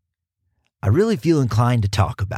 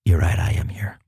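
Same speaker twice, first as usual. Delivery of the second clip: unvoiced whisper as Kyle; whispered reply from the sidekick; 5 semitones lower than usual.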